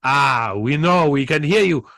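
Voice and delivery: a light put-on Japanese accent; barely-there Japanese accent. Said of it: "I'm doing my Japanese accent for Chinese".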